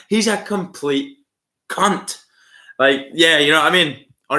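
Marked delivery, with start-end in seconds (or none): 0.1-2.2 "complete" drawn out slowly, then a separate "cunt"; higher, deliberate insult with a gap before "cunt"; emphatic insult. Shown as a demonstration. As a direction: stretch "complete", pause, then land "cunt". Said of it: "Unless you go".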